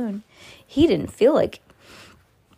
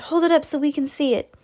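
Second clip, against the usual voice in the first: calling out; 7 semitones higher than usual. Acted. Crowd member calling out.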